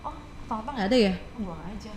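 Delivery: casual, then dropping away; careless shrug. Retold or imitated. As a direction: shrug it off like a newcomer. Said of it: "orang-orang yang baru gini".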